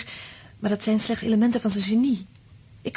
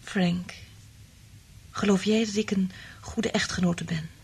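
whisper; 4 dB quieter than usual. Acted. Liz asks Frank, intimate.

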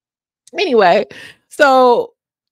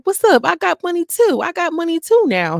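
mock boast; 10 semitones higher than usual. Mariah boasting back.

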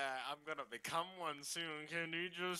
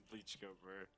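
quoted catchphrase; 7 semitones lower, 11 dB quieter, slower than usual. Retold or imitated. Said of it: "what YouTuber did I just quote".

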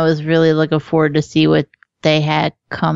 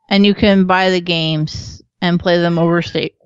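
hiccuping mid-sentence; talking through the hiccups. Real, not acted. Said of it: "excuse me, I have the hiccups".

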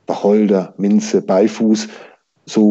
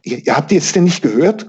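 stammering, higher and urgent; panting; 6 semitones higher than usual. A narrator's reading. Peter at the door after fleeing, panting. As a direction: gasp out the question, out of breath. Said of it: "keuchte Peter".

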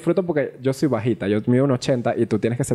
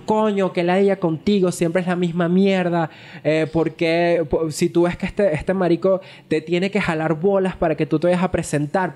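angry scolding; 3 semitones higher than usual. Retold or imitated. Partner scolding comedian over stand-up, imitated angry yelling. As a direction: re-enact an irate telling-off. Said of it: "pero gritándome arrecho".

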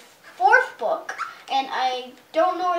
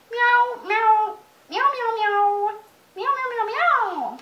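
high mewing kitten voice; crying kittens; 7 semitones higher, much slower than usual. Acted. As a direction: mew like sad little kittens.

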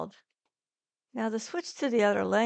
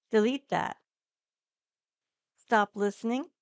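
dictating; 3 dB louder than usual. Shown as a demonstration. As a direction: clear spoken commands. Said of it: "You can say things such as".

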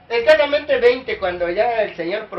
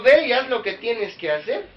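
loud preaching; 5 semitones higher, 4 dB louder than usual. Acted. Preaching Jesus' words to Judas.

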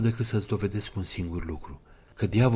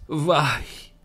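higher, frightened cry; terrified gasp; 8 semitones higher, 5 dB louder than usual. Acted. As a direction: gasp in horror. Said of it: "exclamă Sonia îngrozită". (strigăt îngrozit)

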